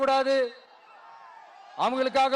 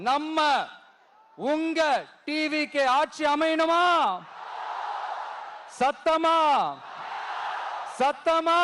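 rallying the crowd; 3 semitones higher, slower than usual. Real, not acted. Leader urging the crowd to answer him, higher and rousing. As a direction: pull the roar out of the crowd.

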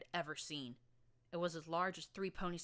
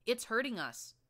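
urgent shout; 6 semitones higher, 8 dB louder than usual. Acted. Fighting the scorpion.

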